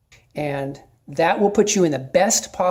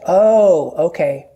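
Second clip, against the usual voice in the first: friendly acknowledgment; 6 dB louder, much slower than usual. Shown as a demonstration. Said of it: "okay, here's what you say".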